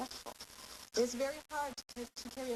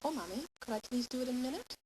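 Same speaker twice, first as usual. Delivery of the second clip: put-on polite child; 3 semitones higher than usual. Prompting the child with the words to copy, polite child. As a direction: ask Mommy sweetly, rising at the end. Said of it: "we might say".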